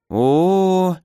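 long rising "О-о-о" in amazement; a high stretched "О-о-о" of wide-eyed surprise; strange drawn-out oh. Acted. Housekeeper gapes at the siblings, high stretched oh. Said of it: "издала странный звук Ирина".

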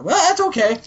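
high, sugary lady voice; hammed-up high fancy lady; mock Rarity gush. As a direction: gush like a fashionable friend.

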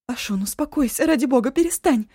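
high loud begging; Eva pleads with sobbing Ashun, high and loud; pleading. Acted. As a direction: beg her to stop, urgently. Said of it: "взмолилась Эва".

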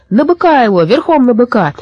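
high, urging shouts; excited crowd calls. A narrator's reading. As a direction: urge the crowd to hoist him up. Crowd calls while tossing Thomas.

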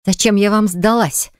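ordinary delivery

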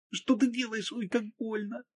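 wounded woman protesting in pain; hurt Margo. A narrator's reading.

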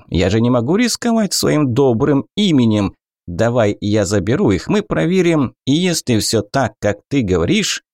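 high, wheedling goblin trader. Acted.

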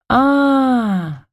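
long, high "ah" of recollection; drawn-out. A narrator's reading. Sister recalling an unflattering remark, drawn out. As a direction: stretch it out as it dawns. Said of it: "протянула она".

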